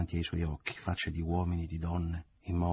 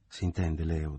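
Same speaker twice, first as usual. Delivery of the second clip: firm, through teeth; slower than usual. Acted. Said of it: "disse con fermezza e quasi gli parve a denti stretti".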